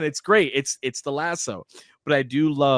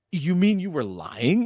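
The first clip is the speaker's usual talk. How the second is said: slow, higher-pitched incredulous question; stunned disbelief; 5 semitones higher than usual. Retold or imitated. Retelling her confronting Steve about lying, in slow, stunned disbelief. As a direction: draw it out, imitating her astonishment. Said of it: "she's stunned by it".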